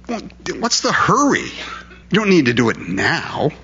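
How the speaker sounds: a hint of a smooth, lazy devil; Satan's coaxing voice. Satan coaxing a sinner to wait, lightly voiced. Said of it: "He just says".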